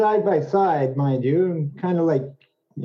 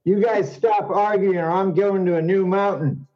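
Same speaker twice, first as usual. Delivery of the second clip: mock angry monk; 4 semitones higher than usual. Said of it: "really angry".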